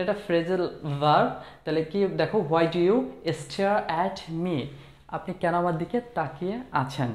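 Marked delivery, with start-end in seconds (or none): 2.5-4.6 a very slow, mildly irritated question; slightly annoyed. Shown as a demonstration. Teacher to students, a lightly annoyed question. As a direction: let a touch of annoyance in. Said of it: "একটু বিরক্তিভাবে কিন্তু আমরা এটা বলতে পারি".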